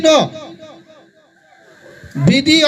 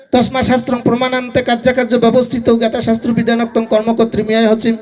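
chanted shloka, a little lower and steady; Sanskrit recitation; 3 semitones lower than usual. Acted. Preacher to the gathering, reciting Gita shloka. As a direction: intone the verse like scripture.

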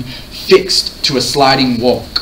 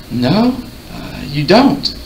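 hushed, wondering awe, pitched higher; 4 semitones higher, slower than usual. A narrator's reading. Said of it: "she said in awe".

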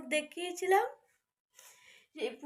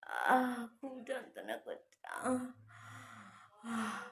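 weak pained voice; 3 semitones lower, 4 dB quieter than usual. Real, not acted. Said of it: "কথা বলতে পারছি না".

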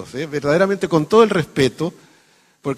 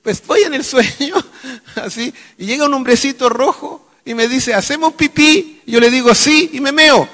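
high, tearful comic storytelling; mock crying; 11 semitones higher, 6 dB louder than usual. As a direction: whimper it out loudly like a distraught patient. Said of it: "Va llorando donde el psiquiatra". (paciente llorón exagerado, muy agudo)

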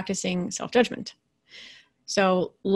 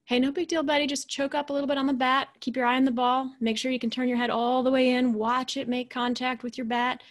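higher, relaxed encouraging coach voice; easygoing coach; 4 semitones higher than usual. Retold or imitated. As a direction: cheer the kid on gently, no big deal. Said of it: "the parent or coach is like".

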